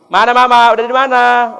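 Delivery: son-in-law eagerly greeting mother on the phone. Retold or imitated. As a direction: call out happily down the line.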